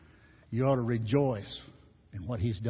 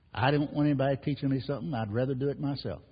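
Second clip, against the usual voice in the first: defiant sinner's attitude; 3 semitones higher than usual. Retold or imitated. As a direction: toss it off like someone who needs no one. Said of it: "That's the attitude of the lost person".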